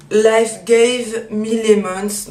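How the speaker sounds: slow, careful French-accented English; self-mocking English accent on the name; cheap English accent. Shown as a demonstration. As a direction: read the product name in a clumsy English accent. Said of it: "désolée pour mon accent à deux balles".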